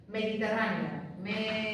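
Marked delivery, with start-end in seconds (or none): 1.2-1.7 syllable by syllable. Shown as a demonstration. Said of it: "dos sílabas diferentes".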